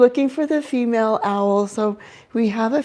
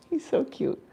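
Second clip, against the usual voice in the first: whispering; 6 semitones higher, 7 dB quieter than usual. Real, not acted. Adoring the owl.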